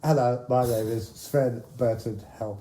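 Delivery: lightly voiced mock Swedish star; Sven Bertil Tauber impression. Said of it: "Impression, please".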